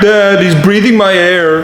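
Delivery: high slow mocking echo; mocking copycat. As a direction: slowly parrot his brother to annoy him. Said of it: "Now he's copying me".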